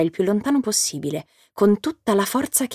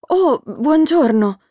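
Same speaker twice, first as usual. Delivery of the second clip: slow, higher, extra-polite greeting; as politely as possible; 6 semitones higher, 3 dB louder, slower than usual. A narrator's reading. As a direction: win back a friend with courtesy. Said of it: "il più gentilmente possibile". (saluto gentilissimo, lento e più acuto)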